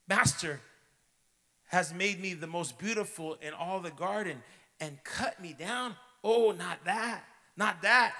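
high, loud, rising panic; desperate disbelief rising to a loud wail; horrified plea. A narrator's reading. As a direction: cry out in horror at the thought. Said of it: "A trembling of great horror".

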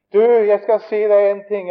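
loud, high, full-voiced call; shouting across. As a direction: shout to a friend over the street. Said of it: "jeg roper Vognan Hansen". (høyt rop over gaten)

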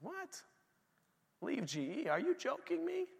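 retold disbelief. Retold shock at God's call.

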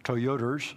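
"Toyoters" with an r sound at the end; imitating grandfather's "Toyoters", toy-OH-ters; grandfather's mispronunciation. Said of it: "like my grandfather used to call".

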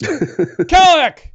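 long, high shouted name; yelling upstairs. Acted. Orc calling upstairs for backup, bellowing. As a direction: bellow the name to summon help. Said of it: "he yells upstairs".

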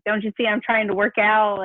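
slightly testy retold complaint; a touch of impatience, played lightly; mildly snippy. Mom retelling her reply to interrupting kids, mildly snippy. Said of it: "I get snippy".

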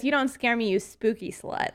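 light, normal-volume teasing taunt; playful taunt. Pretend. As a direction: toss it off with a grin. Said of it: "I'll say this".

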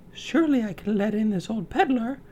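put-on high, sweet girl voice; polite high young girl; girlish voice. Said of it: "Snow White thought".

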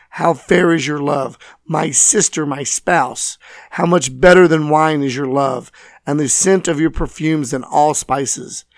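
normal talking voice

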